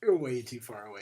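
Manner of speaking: whispered, close to the mic; real whisper. Real, not acted. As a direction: hush it so only the partner hears. Telling cohost he's off-mic.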